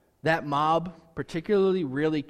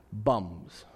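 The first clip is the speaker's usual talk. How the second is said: Rocky voice; 7 semitones lower, 5 dB quieter than usual. Retold or imitated. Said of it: "as Rocky probably would also".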